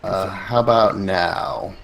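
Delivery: tinny, processed voice; glitchy robotic connection; tinny robotic audio. Real, not acted. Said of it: "It's still the same".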